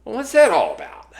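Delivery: put-on high, loud Australian-accented question; a touch of hammed-up Australian; mock Australian accent. Imagined Hugh Jackman asking a dejected podcaster, mock Australian accent. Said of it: "in an Australian accent".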